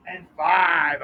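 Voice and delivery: a coach celebrating the catch on the last number; excited counting shout. Real, not acted. Coach on video cheers his own completed drill, excited shout. Celebrating a caught behind-back throw.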